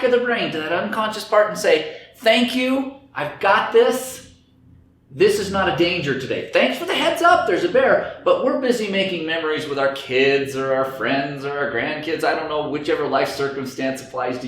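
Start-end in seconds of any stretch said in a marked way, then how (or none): 2.2-12.2 cheerful. Acted. Brain voiced cheerfully dismissing danger.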